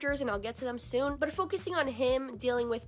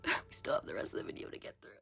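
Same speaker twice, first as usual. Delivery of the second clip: words squeezed out through laughter; laughing; 6 dB quieter, faster than usual. Real, not acted. Laughing while talking on camera.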